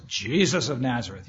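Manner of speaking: lightly voiced gruff soldier; mildly gruff, demanding voice. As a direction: demand it with a touch of gruff authority. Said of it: "stated in a pretty gruff voice".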